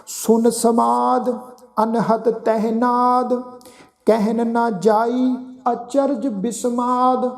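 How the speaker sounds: slow, measured recitation of sacred verse; slow scripture recitation. Acted. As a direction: lay each phrase down slowly with pauses. Recites gurbani verse slowly.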